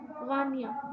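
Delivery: गानिया said alone, split into two syllables; syllable demo. Shown as a demonstration. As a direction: say गानिया slowly as two beats. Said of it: "दो दफ़ा मैंने अपना name गानिया दो दफ़ा बोला".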